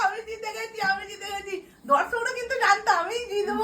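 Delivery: high, laughing gloat; laughing winner. Real, not acted. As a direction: crow about winning, laughing. Gloating over the win.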